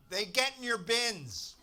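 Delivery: slow, loud, high heckle yell; drunk shout. Retold or imitated. Drunk heckler shouting at the comedian, slow loud yell. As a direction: bellow it from the back like a drunk. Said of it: "shouted out".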